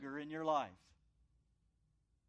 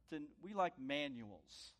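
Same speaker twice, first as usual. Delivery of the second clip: normal talking voice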